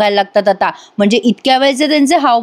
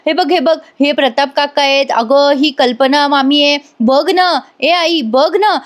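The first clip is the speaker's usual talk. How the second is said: higher-pitched nagging plea, no real shout; mock insistent yelling; 3 semitones higher than usual. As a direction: urge mother to look, voice lifted. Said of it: "Priya त्यांच्या कानाशी मोठ्या मोठ्याने ओरडत असते". (आग्रही आर्जव, हलकासा ओरडण्याचा अभिनय)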